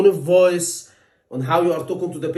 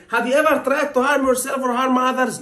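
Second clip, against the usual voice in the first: blunt question; 6 semitones higher than usual. Shown as a demonstration. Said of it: "I'm not gonna say to the patient".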